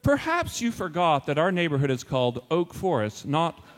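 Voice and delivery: formal, deliberate notice with pointed emphasis; mock-official letter reading. Finkelstein writing to another neighbor, mock-official reproach. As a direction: read it as a pompous letter of complaint. Reads out the second fake letter.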